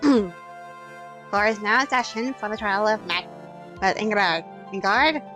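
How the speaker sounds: put-on creaky elderly judge; slow, old judge voice; old man voice. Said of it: "I have to do the old man voice".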